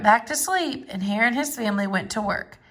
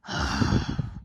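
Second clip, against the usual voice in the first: weary sigh; 5 dB quieter than usual. Acted. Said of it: "Bear looked at his pile and scowled".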